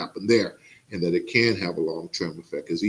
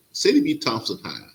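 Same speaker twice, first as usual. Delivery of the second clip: proud. Real, not acted. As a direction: announce the school name like a proud alum. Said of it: "'cause I'm just so proud of the school".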